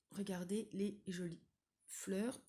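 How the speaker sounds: talking through hiccups; hiccuping between words. Real, not acted. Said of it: "Excusez-moi, j'ai le hoquet". (avec le hoquet)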